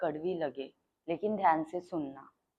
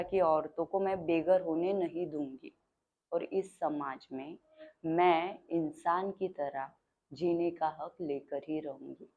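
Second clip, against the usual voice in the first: solemn vow; 3 dB quieter than usual. Acted. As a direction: make a measured vow to the crowd. Solemn vow closing the speech.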